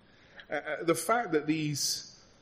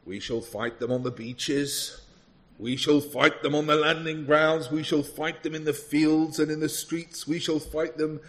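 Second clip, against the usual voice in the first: building, loud wartime oratory in a put-on British statesman's accent; Winston Churchill accent; 3 semitones higher, 4 dB louder than usual. Preacher quizzing congregation on famous speeches, mock British statesman's accent. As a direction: declaim it as an amateur imitation of a British wartime leader's accent. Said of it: "this accent, is it?".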